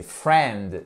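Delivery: friend dit « frènd », sans le i; friend correct. Shown as a demonstration. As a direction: friend prononcé « frènd », le i muet. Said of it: "on ne prononce pas le i". (friend dit « frènd », sans le i)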